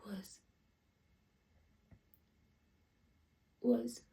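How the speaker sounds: very soft, barely audible; stunned grief. Acted. Parent correcting to past tense, faint and grieving. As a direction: let it shrink to almost nothing.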